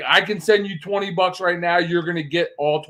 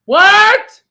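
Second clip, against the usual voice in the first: baffled; 12 dB louder than usual. Real, not acted. Baffled by Venmo.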